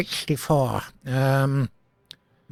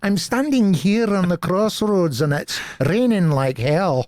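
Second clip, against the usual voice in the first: a slightly higher, playful Glasgow accent; 3 semitones higher than usual. Shown as a demonstration. Voice actor demos a Glasgow accent on request. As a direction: put on a Glaswegian street-corner voice.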